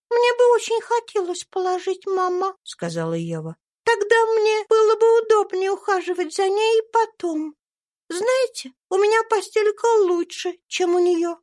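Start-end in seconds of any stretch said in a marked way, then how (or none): 0.1-2.5 put-on high, bright child's voice; little girl Eva. A narrator's reading. 3.8-11.4 put-on high, bright child's voice; little girl Eva. A narrator's reading.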